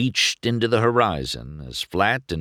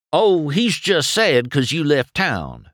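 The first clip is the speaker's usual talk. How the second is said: explaining; 8 semitones higher, 4 dB louder than usual. A narrator's reading. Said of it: "Mater explained".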